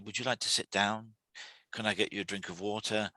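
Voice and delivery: gentle, reassuring offer of help; calmly soothing someone who is overwhelmed. Shown as a demonstration. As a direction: ease someone mid-meltdown with a calm gentle voice. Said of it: "if you speak very calmly, very gently and say".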